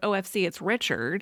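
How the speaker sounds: ordinary talk, nothing marked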